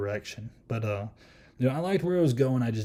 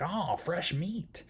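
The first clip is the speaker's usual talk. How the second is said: high, slow, drawn-out demon lady voice; slow singsong mock creature voice, pitched up; Mabel the friendly demon; 7 semitones higher, 4 dB quieter, much slower than usual. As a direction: mimic a demon delighting in new arrivals. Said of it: "the way she talks to him".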